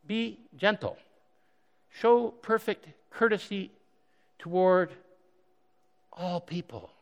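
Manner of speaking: halting mock-reluctant read-through with long pauses; hesitant, phrase by phrase, fading at the end. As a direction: read each command as if it just hit home. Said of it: "and then it's your turn".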